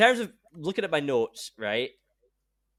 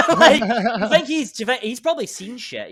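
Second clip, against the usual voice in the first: laughing through the words, pitched up; giggling while joking about Pesci; 8 semitones higher, 9 dB louder than usual. Real, not acted. Laughing to co-host about Pesci having seen things.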